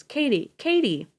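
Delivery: "Katie" shouted high and loud, falling; husband shouting his unconscious wife's name; calling out. A narrator's reading. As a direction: cry her name in alarm.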